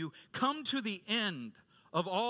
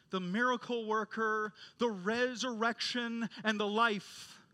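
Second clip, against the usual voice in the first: reverent proclamation; 4 semitones higher than usual. Acted. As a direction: let each title ring, with long pauses between. Reverent listing of God's titles.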